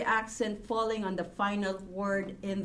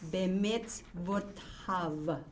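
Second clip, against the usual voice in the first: slow syllable reading; 4 dB quieter, much slower than usual. Shown as a demonstration. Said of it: "You hear mitzvah there?".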